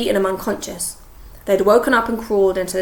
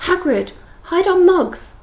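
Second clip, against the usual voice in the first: higher, louder, slowed urgent cry; urgent plea; 10 semitones higher, 6 dB louder, slower than usual. Acted. Hermione to Hagrid, urgent raised plea. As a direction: get him to hide them, fast.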